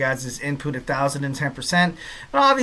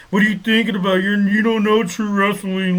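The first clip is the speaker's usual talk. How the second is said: mock scolding, pitched up; savage online critic; 4 semitones higher, 3 dB louder than usual. Imagined commenters berating the host over his post, mock outrage. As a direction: imitate an indignant commenter tearing into someone. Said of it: "go savage and just start ringing me out".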